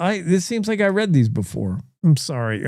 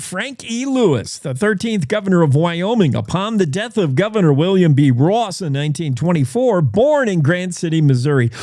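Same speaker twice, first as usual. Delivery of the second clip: run-on read. Shown as a demonstration. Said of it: "I'll read it the way he wrote it".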